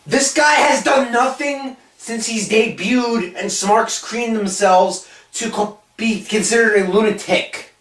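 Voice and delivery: slow, drawn-out incredulous complaint; exasperated rant. Real, not acted. Fed-up cohost rants about an overhyped wrestler, exasperated. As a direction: spell it out slowly, exasperated.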